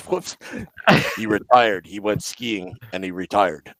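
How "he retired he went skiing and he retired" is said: lightly voiced deadpan executive; Lou Lamoriello. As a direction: answer the press low and dry, in imitation. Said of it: "he does the best Lou Lamoriello impression".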